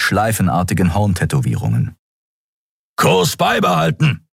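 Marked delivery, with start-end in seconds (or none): 2.9-4.3 high, clipped order; commanding captain. Acted. Sron ordering his crew, high and commanding. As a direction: give the order. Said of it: "befahl Sron".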